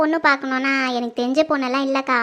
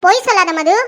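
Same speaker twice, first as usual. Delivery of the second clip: louder, cutting rebuke; angry accusation; 3 semitones higher, 5 dB louder than usual. Acted. Mother accusing her daughter of lying, loud and angry. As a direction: slap down the denial.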